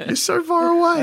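high, far-off call across the room. Acted. Calling to someone far off.

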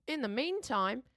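loud outro. Acted. Jokey post-credits outro.

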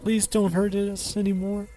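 frightened plea; begging fearfully. Acted. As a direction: beg him not to hurt you. Henry begging in fear.

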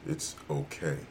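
low, soft, seductive murmur; sultry voice. Acted. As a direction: purr it like a perfume ad. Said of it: "deep, sultry voice telling you that".

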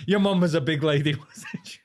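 mock English bluntness, breaking into a laugh; hammed-up English uncle, tactless and loud at a funeral. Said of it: "but he's very English".

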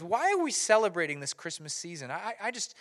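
lightly voiced lost soul; down and confused. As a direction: act out a glum, puzzled struggle. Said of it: "he's down and he's kinda confused".

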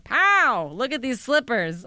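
flaunt it like a trump card; mock triumphant. Showing off her slippers as the fake manager, mock-triumphant.

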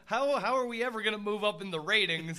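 rising to a loud shout; excited yell right into the microphone. Real, not acted. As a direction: build up and yell the name. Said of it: "I should stop yelling".

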